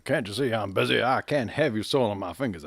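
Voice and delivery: huffy Southern lawyer brushing him off; Southern accent. Acted. Lawyer refusing the detective: light Southern accent. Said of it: "everyone's got a Southern accent".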